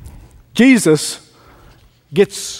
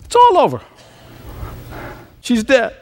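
grief-stricken cry; 6 semitones higher than usual. Retold or imitated. Jairus hearing daughter died.

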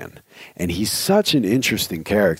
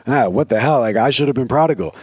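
slightly raised mock grievance; scowling; 4 semitones higher, 3 dB louder, faster than usual. Brother who stayed home resents the prodigal, mock scowling. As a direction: gripe like the overlooked brother, lightly put on. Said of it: "like, scowling".

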